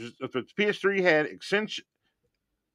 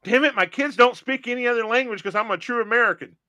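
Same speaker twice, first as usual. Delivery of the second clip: lightly voiced proud American, pitched up; mock true American; 6 semitones higher than usual. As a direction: put on a bit of patriotic indignation. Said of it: "you're a true American where you say".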